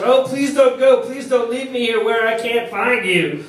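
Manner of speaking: high, loud melodramatic plea; desperate theatrical wail of grief, pitched high; anguished shout. Acted. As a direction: cry out to a dead lover, hammed up. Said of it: "and he shouts".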